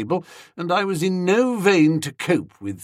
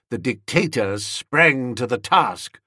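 plain reading voice

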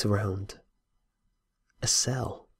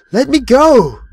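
much higher and louder terrified shriek; scream; 14 semitones higher, 13 dB louder than usual. A narrator's reading. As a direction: scream it while strapped down. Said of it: "I screamed".

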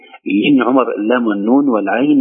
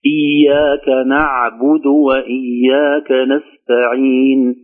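very slow, drawn-out recitation of إياك نعبد; measured Quran recitation; much slower than usual. Shown as a demonstration. Teacher reciting the next verse, slow measured recitation. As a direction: stretch the long vowels on a steady tone.

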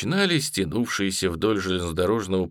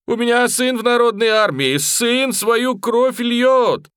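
high, loud, slow wail; wailing plea; 14 semitones higher, 6 dB louder, slower than usual. A narrator's reading. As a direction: cry out in despair. Peasant wails on his knees. (высокий громкий вопль)

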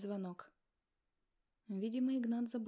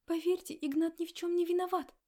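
higher, louder fervent defense; a young woman passionately defending the man she loves; ardent plea; 7 semitones higher, 8 dB louder than usual. A narrator's reading. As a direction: plead passionately for him. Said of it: "пылко произнесла девушка".

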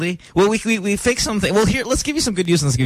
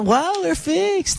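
sarcastic; 13 semitones higher, much slower than usual. Real, not acted. Sarcastic, mic still broken.

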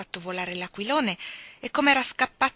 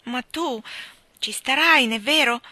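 coaxing; 6 semitones higher, 7 dB louder than usual. A narrator's reading. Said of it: "sperando di lusingarla".

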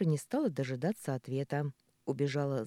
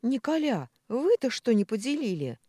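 higher, louder exclamation; exclaiming; 9 semitones higher, 7 dB louder than usual. A narrator's reading. Маша to the two men who fought, exclaiming. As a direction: cry out the question in reproach. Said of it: "воскликнула Маша".

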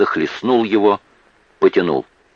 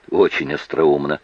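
dry snort; 3 semitones lower than usual. Acted. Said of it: "хмыкнула Эбби в сторону".

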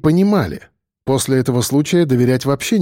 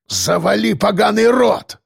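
гневно; 7 semitones higher, slower than usual. A narrator's reading. Дед в гневе.

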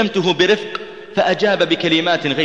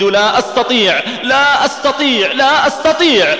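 despairing repetition; 9 semitones higher, 4 dB louder than usual. Retold or imitated. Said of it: "وهو يردد".

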